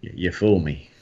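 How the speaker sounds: George Bush. Acted. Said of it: "a bit like George Bush".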